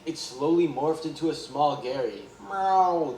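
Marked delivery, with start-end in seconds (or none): 2.5-3.2 snail meow. A narrator's reading. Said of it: "the Gary in SpongeBob's imagination said".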